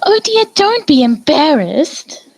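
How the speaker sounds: high, eager reassuring cry; crying out gushingly. A narrator's reading. Rarity comforting blushing Fluttershy, a high eager cry. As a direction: gush at her to not be shy. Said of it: "Rarity cried".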